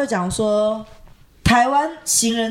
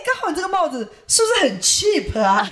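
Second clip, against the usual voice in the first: laughing; 7 semitones higher than usual. Real, not acted. Teasing pun about the hat.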